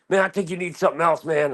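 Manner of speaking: a dismissive doctor brushing you off; imitating the doctor. Doctor refusing the weed request, high mock voice.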